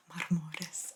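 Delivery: "Marmores" whispered in an Italian accent, mar-MO-res; Italian-style "Marmores". Shown as a demonstration. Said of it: "I think I used an Italian accent there".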